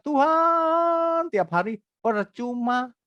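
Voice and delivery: high cry of "Tuhan" stretched long; mock crying out. Preacher mimics people crying out to God. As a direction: call "Tuhan" like a desperate crowd. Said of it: "Orang-orang teriak".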